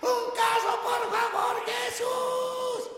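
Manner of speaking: high, loud pleading to Jesus; mocking a believer's loud, high begging prayer. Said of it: "He visto personas que dicen".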